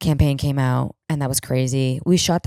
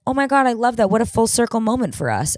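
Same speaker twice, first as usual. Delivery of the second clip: high-voiced celebrity enthusiasm; imitated gushing; 7 semitones higher than usual. Celebrity hearing of the shared writer, imitated gushing. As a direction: gush in a raised, imitated voice.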